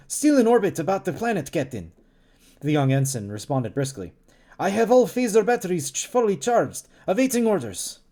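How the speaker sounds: put-on lightly Russian-accented ensign reporting; a hint of a Russian accent, crisp report; mild Russian accent on a young ensign. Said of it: "like, a Russian accent".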